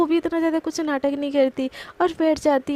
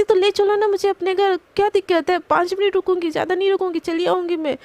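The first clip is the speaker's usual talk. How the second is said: higher and louder insistent demand; retold yelling; 4 semitones higher, 3 dB louder than usual. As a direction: push hard, voice raised and pitched up. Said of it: "इतना चिल्ला क्यों रही हो?". (ऊँची आवाज़ में ज़िद करते हुए चिल्लाना)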